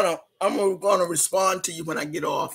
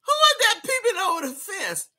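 high call out; 10 semitones higher than usual. Real, not acted. Spotting kids at the fence.

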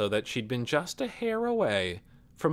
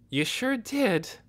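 cold and hard; 11 semitones higher, slower than usual. Acted. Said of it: "going hard again".

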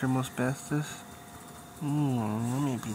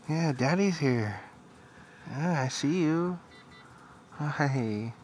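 tender reassurance; 2 semitones higher, slower than usual. Real, not acted. Father reassuring his newborn he is there, slow and tender. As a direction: reassure the little one gently, taking your time. Father soothing baby son.

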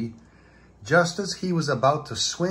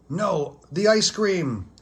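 Patrick voice; 6 semitones higher than usual. A narrator's reading. Patrick answers happily.

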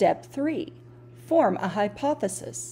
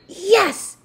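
high excited holler; 12 semitones higher, 8 dB louder than usual. Acted. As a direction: cheer it out loud. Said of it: "he hollered".

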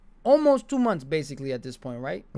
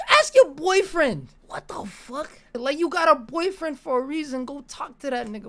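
mock telling her off; 8 semitones higher than usual. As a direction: snap at her to go ask him. Talking back to the girl.

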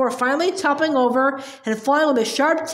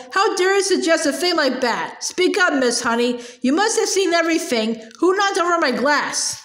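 higher, outraged demand; indignant roar; 3 semitones higher than usual. Acted. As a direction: bellow at the teacher. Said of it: "roared the Trunchbull".

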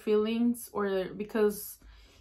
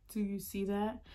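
soft, half-whispered question; trying to whisper; 7 dB quieter than usual. Retold or imitated. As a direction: try to whisper so nobody hears. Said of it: "I try to whisper".

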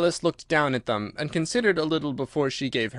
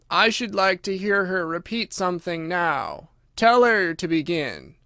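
Mock Turtle voice; 5 semitones higher than usual.

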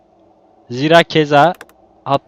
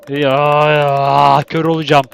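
exasperated outburst; 6 dB louder, much slower than usual. Real, not acted. Frustrated at the game.

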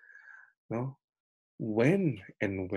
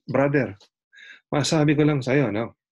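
higher, louder preachy reproach; scolding pastor; 4 semitones higher, 4 dB louder than usual. Retold or imitated. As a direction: lecture the sick neighbour like a self-righteous pastor. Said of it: "Ang sabi ng kapitbahay niyang pastor".

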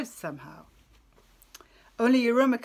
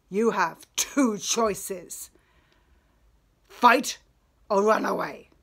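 glaring refusal; 5 dB louder than usual. Acted. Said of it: "With a glare, he told him".

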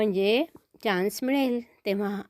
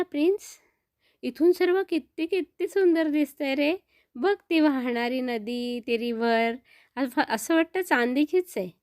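put-on higher child's voice full of wonder; awed little boy; 4 semitones higher than usual. Boy showing the horse the silver river, awed child voice. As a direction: marvel at the view like a small boy. Boy admiring view from mountain.

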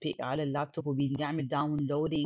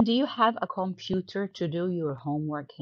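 slow reading; 3 semitones higher, much slower than usual. Shown as a demonstration. Teacher reading the textbook dialogue to students, slow and clear. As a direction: read "do you have a computer to do your homework" slowly and clearly. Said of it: "reads textbook dialogue aloud".

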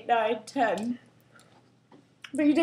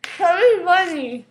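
slow, garbled, mouth stuffed; cheeks stuffed full. Real, not acted. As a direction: force it out past stuffed cheeks. More marshmallows stuffed in.

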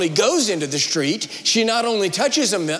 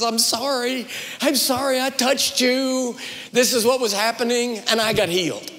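lightly voiced, higher apologetic plea; a hint of a sheepish confession, pitched up; apologetic woman; 5 semitones higher than usual. Healed woman confessing to Jesus, mildly apologetic.

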